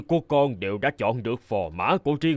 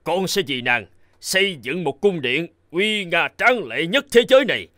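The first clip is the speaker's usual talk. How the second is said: rising to a louder, higher boast; boastful grand promise; 4 semitones higher, 3 dB louder than usual. Acted. Suitor boasting to the princess, building louder and higher.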